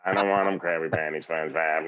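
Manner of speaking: a hint of grumpy Squidward; sulky Squidward, barely off his own voice; lightly voiced Squidward. Dad doing Squidward for his daughter, lightly voiced. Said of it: "Like, I do this".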